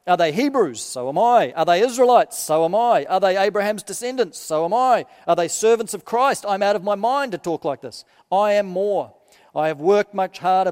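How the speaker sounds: measured, solemn reading of Paul's letter; preacher reading scripture aloud. Acted. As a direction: read it out to the congregation with weight. Minister reads Paul's letter aloud.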